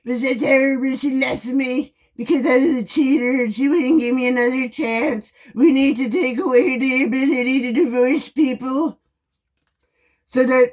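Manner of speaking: mocking voice of a cheating husband complaining; parodying men who blame their wives, in a mocking voice; mock whiny ex-husband. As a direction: sneer it like a whiny man. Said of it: "you wanna be like".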